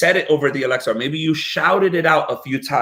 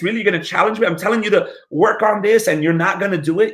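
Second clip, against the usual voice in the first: acted scolding, pitch lifted; stern adult; 4 semitones higher, faster than usual. Adult scolding a child seen as defiant, mildly stern. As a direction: challenge the child in mild, incredulous sternness. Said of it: "they go even sterner".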